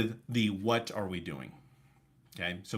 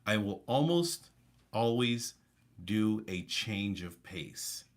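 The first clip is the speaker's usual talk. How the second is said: drawn-out slow change of pace; slow right down and leave gaps; deliberate slowdown with pauses; much slower than usual. Shown as a demonstration. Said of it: "notice in my speaking pattern".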